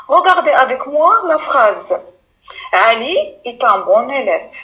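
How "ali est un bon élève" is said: Ali est un bon élève said with the voice rising at the start and falling at the end; rising then falling tune. Shown as a demonstration. Teacher demonstrating a statement to pupils with a rising-then-falling tune. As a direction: rise on the start of the sentence, drop at the end. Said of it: "Au début de la phrase, je monte et à la fin, je descends".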